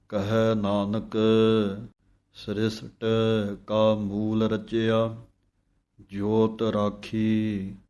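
slow chanted reading of the hymn; scripture recitation. Shown as a demonstration. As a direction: recite the verse slowly and devoutly.

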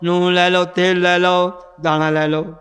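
lightly voiced street vendor's call; slow, measured mock hawking, item by item; ਫੇਰੀ ਵਾਲੇ ਦਾ ਹੋਕਾ. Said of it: "ਹੋਕਾ ਦੇ ਰਿਹਾ". (ਫੇਰੀ ਵਾਲੇ ਵਾਂਗ ਹਲਕਾ ਜਿਹਾ ਹੋਕਾ)

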